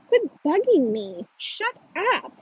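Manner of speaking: put-on high, sharp yell in a boy's voice. Boy yelling at his sister to shut up. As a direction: snap it out high like a bratty boy. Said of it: "yells the voice that sounds like Brady".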